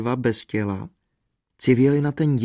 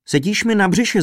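high-pitched whine; plaintive trumpeter, pitched up high; wailed complaint; 8 semitones higher, 4 dB louder than usual. A narrator's reading. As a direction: wail it in discomfort. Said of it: "zakvílel trumpeťák".

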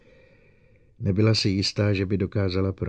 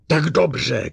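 loud angry retort; shouted; 8 semitones higher, 6 dB louder than usual. A narrator's reading. Bogart shouting at Lening in anger. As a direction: snap it back with force. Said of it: "křičel Bogart".

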